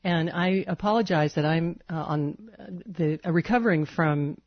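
talking around a cough drop; marbles in mouth. Real, not acted. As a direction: cough drop tucked in cheek. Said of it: "if it sounds like I'm speaking with marbles in my mouth".

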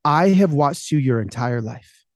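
slow, deliberate imitated father; measured, weighty fatherly verdict; lightly voiced dad, spacing out the words; dad's pronouncement. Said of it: "And he says".

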